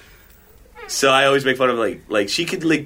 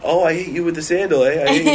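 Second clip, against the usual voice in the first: lightly voiced mom, much higher and indignant; imitating mom yelling; 6 semitones higher than usual. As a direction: squeak up into his mom's scolding.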